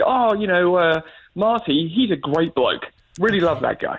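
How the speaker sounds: British example line. Shown as a demonstration. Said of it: "so you would just say".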